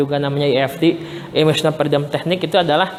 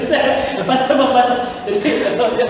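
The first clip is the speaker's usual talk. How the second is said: real laughter; 5 semitones higher than usual. Real, not acted. Host laughs at hypnosis remark.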